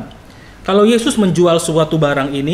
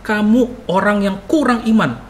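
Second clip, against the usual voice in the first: slow, higher-pitched stinging rebuke; sharp rebuke; 4 semitones higher, slower than usual. Acted. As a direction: draw out a pointed reproof. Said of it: "bisa berkatanya pedes". (teguran pedas)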